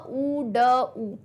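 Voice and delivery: ऊ, ड ऊ drawn out slowly, each sound held. Shown as a demonstration. Teacher sounding out word endings slowly for students. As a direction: stretch out ऊ and ड so the endings are heard.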